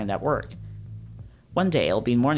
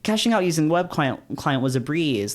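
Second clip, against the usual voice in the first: infomercial voice; 4 semitones higher than usual. Shown as a demonstration. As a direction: sell it like an infomercial. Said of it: "why does he speak like an infomercial".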